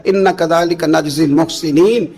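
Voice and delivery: slow, chanted Arabic recitation; Quran recitation. Acted. Preacher reciting the verse to the crowd, chanted slowly. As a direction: draw out each word like tilawat.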